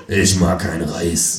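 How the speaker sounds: dim Freundlich. Acted. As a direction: repeat it slowly like a dim guest. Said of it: "sagt Herr Freundlich".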